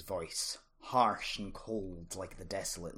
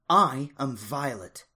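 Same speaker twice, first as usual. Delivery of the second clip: authoritative; 4 semitones higher, 8 dB louder, slower than usual. A narrator's reading. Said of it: "with an unmistakable note of authority".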